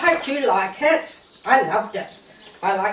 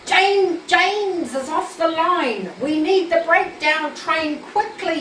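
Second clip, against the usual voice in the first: a lightly acted urgent shout; mock shout; 5 semitones higher than usual. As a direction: call out the alarm, mildly raised. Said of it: "he shouted".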